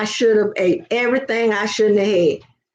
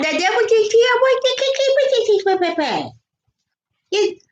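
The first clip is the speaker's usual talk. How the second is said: laughing stammer; 10 semitones higher than usual. Real, not acted.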